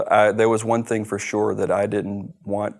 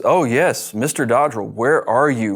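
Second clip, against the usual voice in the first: retold eager surprise; 3 semitones higher, 6 dB louder than usual. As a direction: play the agent hamming up his surprise at the call. FBI agent answers the phone.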